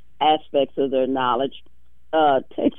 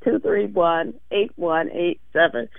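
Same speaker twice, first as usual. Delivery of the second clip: scratchy voice. Real, not acted. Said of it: "excuse my scratchy voice".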